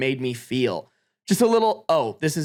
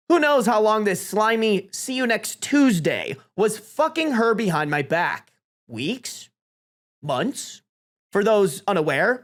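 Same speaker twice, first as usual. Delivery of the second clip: speech voice. Acted. Jilted best man exposing the couple, pointed speech voice. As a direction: deliver it pointedly to a wedding room. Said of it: "I'm giving a speech voice".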